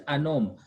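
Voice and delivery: "an homme" with the H left silent. Shown as a demonstration. Teacher repeats it for the student, "an homme" with silent H. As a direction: say "an homme" without any H. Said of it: "H is silent".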